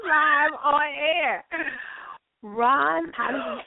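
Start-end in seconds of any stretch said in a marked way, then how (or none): 0.0-1.4 dragged out through laughter; slow words swallowed by a laugh. Real, not acted. Laughing at Ron.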